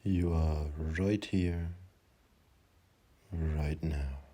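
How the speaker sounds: slow, calm meditation guidance; slow settling meditation voice; guided meditation. Acted. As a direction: guide them gently into stillness, unhurried.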